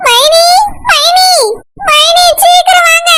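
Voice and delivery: urgent call. Acted. Woman calling her sister-in-law to come quickly, urgent call. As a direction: hurry her over with alarm.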